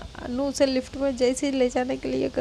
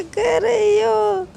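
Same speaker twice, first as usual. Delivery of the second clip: mimicking a whiny girl; 7 semitones higher, 3 dB louder, slower than usual. Mimicking the girl's complaint.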